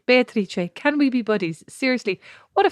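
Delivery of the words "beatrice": put-on lightly Italian-accented name. Joking about a co-host's name, Italian accent. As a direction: say it the Italian way, Bay-ah-tree-chay. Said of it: "unless it's in an Italian accent".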